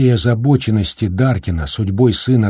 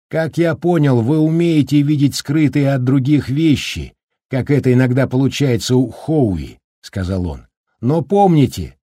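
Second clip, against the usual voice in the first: голос Даркина; 4 semitones higher than usual. Acted. Голос Даркина, говорит вблизи.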